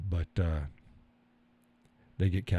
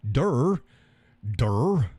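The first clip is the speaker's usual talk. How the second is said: mock dumb durr; 3 semitones higher than usual. Real, not acted. Host mocking himself on the stream, goofy durr. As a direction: play dumb at your own mistake.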